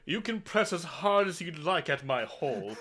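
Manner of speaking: laughing. Acted. Voicing arrogant prosecutor, laughing.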